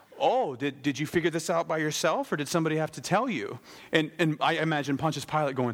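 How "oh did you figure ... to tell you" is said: dry, mocking, needling sarcastic tone. Retelling a reply to a question about being a king, retelling a sarcastic reply. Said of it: "Jesus sarcastically says back".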